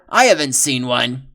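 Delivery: hushed whisper; secretive whisper. Acted. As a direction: breathe it under your voice. Whispered lines.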